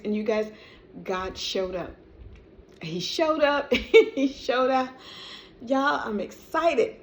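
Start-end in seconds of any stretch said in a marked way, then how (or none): 2.8-7.0 joyful. Real, not acted. Testifying to viewers God showed up, laughing joy. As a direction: savour it with joy.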